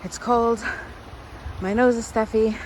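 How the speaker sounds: out of breath from the hill; winded, breathing heavily; shallow breathing. Real, not acted. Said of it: "excuse my heavy breathing".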